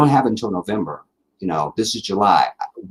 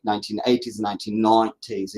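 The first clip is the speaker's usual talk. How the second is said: decades slipped into a British accent. Real, not acted. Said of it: "I do a pretty decent British accent".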